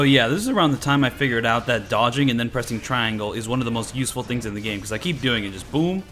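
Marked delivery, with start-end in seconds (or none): none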